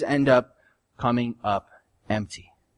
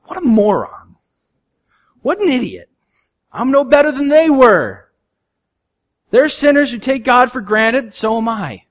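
self-rebuke; 10 semitones higher, 8 dB louder than usual. Retold or imitated. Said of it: "look at myself and go".

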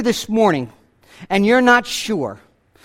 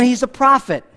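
usual speaking voice

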